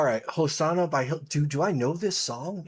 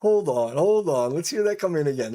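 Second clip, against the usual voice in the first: high, loud stunned whoas; stunned amazement; 8 semitones higher, 6 dB louder than usual. Retold or imitated. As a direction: gasp it out in disbelief. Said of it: "making me back up, go".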